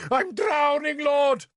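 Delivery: high, loud panicked shout. Acted. Bishop dropped in the pond shouts he's drowning, high and loud. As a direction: yell like you're going under. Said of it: "Sansom shouted".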